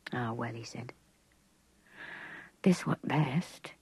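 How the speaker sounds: understated resignation; resigned gamekeeper. A narrator's reading. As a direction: let it go with a sigh.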